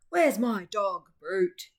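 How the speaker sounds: angry owner shouting for his dog; yelling. A narrator's reading. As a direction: yell out across the room. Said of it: "yelled Ratso".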